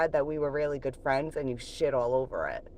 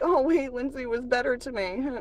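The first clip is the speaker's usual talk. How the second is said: raised, whiny mock of the ex scheming; 4 semitones higher than usual. Vlogger mocks her ex's scheming thoughts, higher and mocking. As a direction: imitate the ex plotting behind his girlfriend's back. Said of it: "And you're like".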